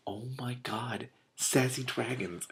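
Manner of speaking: slow, soft whispered delight; whispered aside. Real, not acted. Reader reacting to the dragon quarrel, whispered. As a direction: whisper it, amused.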